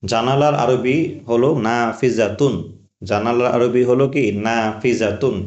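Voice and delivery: key word given slowly; slow teaching. Shown as a demonstration. Teacher giving students the Arabic word, slow. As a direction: point out the new word slowly. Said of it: "খেয়াল করবেন এই কথাটা।".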